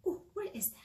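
hushed whisper, high and breathy; a little spooky whisper to kids. Acted. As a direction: whisper it like a scared pumpkin. Pumpkin voiced reading to children.

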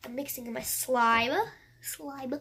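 stuffed-up voice, "slime" ending like "slibe"; sniffly blocked nose. Real, not acted. Vlogger with the sniffles showing her slime, stuffed-up voice. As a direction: let the blocked nose turn m into b. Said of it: "Got the sniffles".

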